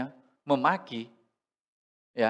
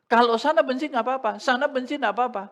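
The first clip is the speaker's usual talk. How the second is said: higher, louder and quicker; emphatic; 10 semitones higher, 8 dB louder, faster than usual. Retold or imitated. Child reasoning about others' hate, high and emphatic. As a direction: blurt it out with conviction.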